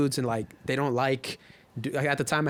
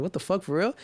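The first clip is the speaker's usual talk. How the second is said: higher-pitched incredulous question; retold disbelief; 5 semitones higher than usual. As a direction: act out being caught off guard. Retold disbelief at being told.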